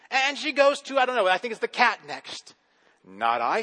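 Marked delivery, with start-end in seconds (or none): 3.1-3.6 a lower, curt cat saying no; lightly voiced lazy cat; lower cat refusal. A narrator's reading. Cat refuses the hen, lower and curt. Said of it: "says the cat".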